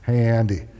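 mildly gentle call to a student; a touch of tenderness. Retold or imitated. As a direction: coax carefully, without pushing. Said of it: "I was real gentle like this".

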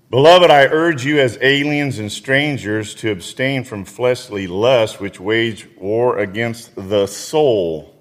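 measured, earnest Bible reading; scripture reading. Acted. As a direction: read the verse to the congregation. Reads scripture aloud.

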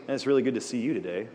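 quick, genuine and friendly hello; sincere greeting. Shown as a demonstration. Teacher demoing a sincere friendly greeting. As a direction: say it like you truly mean it. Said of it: "You're not thinking I'm selling you anything".

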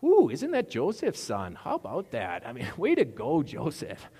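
high, swooping small-town admiration; folksy storybook townsfolk. Acted. Townsfolk praising Joseph's son, hammed-up folksy gushing. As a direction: gush like a neighbour in a folksy tale. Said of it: "almost sounds like a Garrison Keillor story".

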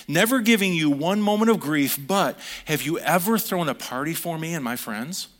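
bitter whining protest; resentful whine. Acted. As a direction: complain like a sulking son who feels cheated. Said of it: "can you hear this attitude".

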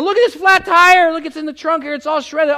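high, loud mock dramatic showing; hammed-up showing off. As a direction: parade the damage to your friends. Showing friends the tire.

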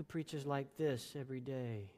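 quiet, flat, droning sermon voice; mock monotone preaching; monotone preacher. Shown as a demonstration. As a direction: drone on softly like a dull pastor. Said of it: "talks in a monotone voice".

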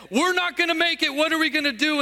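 one disciple finally voicing panic to the others; fearful voice said aloud. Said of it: "There was one that finally said".

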